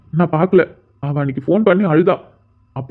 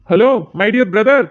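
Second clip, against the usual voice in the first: laughing greeting; much slower than usual. Acted.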